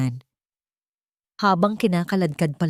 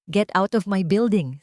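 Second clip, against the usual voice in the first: slow threat; 2 semitones higher than usual. Acted. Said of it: "mabagal at puno ng pagbabanta".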